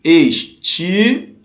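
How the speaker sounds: "Estilo" slowly split, each syllable held apart. Shown as a demonstration. Teacher showing students where to split, "Estilo" syllable by syllable. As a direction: sound out "Estilo" piece by piece, slowly. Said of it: "Separa ali".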